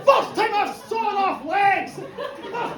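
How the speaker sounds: overjoyed yelling, laughing; elated shouting. Retold or imitated. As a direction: crow with delight at your own success. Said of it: "The doctor's like".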